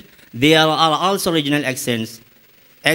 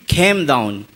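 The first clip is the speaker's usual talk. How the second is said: lightly imitated Australian accent, low-pitched; Australian-style "Came", with a puff on the k and a gliding vowel; 6 semitones lower than usual. Shown as a demonstration. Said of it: "But he is saying".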